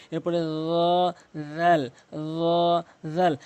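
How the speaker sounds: র and রাল drawn out very slowly; ra and ral. Shown as a demonstration. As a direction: stretch র then রাল. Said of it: "একই জায়গা থেকে". (ধীরে টেনে র আর রাল)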